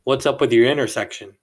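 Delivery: quoting a rude stranger's blunt question; blunt accusing question. Retold or imitated. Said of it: "His words, no lie".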